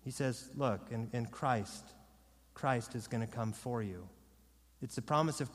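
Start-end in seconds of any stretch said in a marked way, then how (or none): 0.5-4.1 soft, low reassurance; wooing. Acted. Preacher voicing Peter promising Christ's coming, soft wooing. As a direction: gently draw them in, voice lowered. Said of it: "And Peter woos them".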